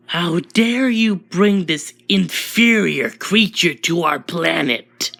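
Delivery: acted indignation, slow and emphatic; indignant outrage. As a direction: demand it with haughty outrage, drawn out. Alien confronts her over the outsider.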